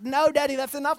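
high-pitched imitation of a kid; protesting child. Kids fend off their dad's affection, high mock protest. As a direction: mimic a child fending off Dad.

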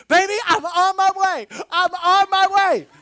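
high, loud urgent mom promise; reassuring mother. Retold or imitated. Mother promising to come, loud. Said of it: "She's like".

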